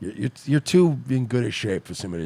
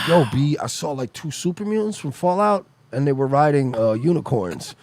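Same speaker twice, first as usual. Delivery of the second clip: mock amazed; 3 semitones higher than usual. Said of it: "He said it like he saw two people riding unicorns".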